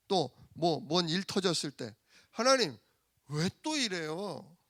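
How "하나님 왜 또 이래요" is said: drawn-out whining complaint; whining prayer. Retold or imitated. Preacher asking God why when trouble hits, whining. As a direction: complain to God, dragging out the words. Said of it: "많이 물어요".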